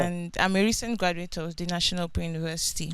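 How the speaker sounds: soft and hard to hear; too quiet at first. Real, not acted. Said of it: "Can you speak up, please?".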